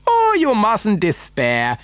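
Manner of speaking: high, drawn-out reassurance; animated cry. A narrator's reading. Factory owner answering grandfather's doubts, animated cry. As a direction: sweep the worry away, slowly and high. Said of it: "cried Mister Wonka".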